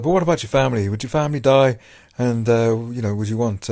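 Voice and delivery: pushy chaplain in accidental Irish; lightly imitated Irish chaplain; Irish accent. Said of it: "I don't know why I'm giving him an Irish accent".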